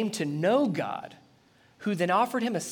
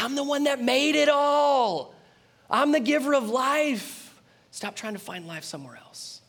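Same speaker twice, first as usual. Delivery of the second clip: God declaring; 8 semitones higher, 3 dB louder than usual. Acted.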